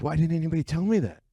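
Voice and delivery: high, fast, indignant disbelief; imitating his own stunned reaction; shocked question. Asking the doctor why nobody warned him, incredulous.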